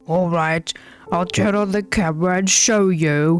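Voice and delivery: gruff wife, slow in places; hammed-up gruff character voice; put-on wife voice. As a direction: play the wife in an affected voice. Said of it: "I need to stop with this voice".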